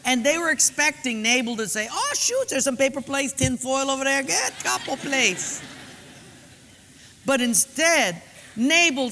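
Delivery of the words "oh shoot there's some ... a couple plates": expected kind reply. Acted. Nabal's expected generous reply.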